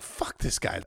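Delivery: usual speaking voice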